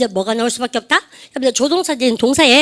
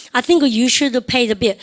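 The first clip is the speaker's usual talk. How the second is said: very slow, each word spaced for the class; drawn out so students can repeat after; very slow model phrase; much slower than usual. Shown as a demonstration. Teacher modelling for class repetition, very slow. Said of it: "시작".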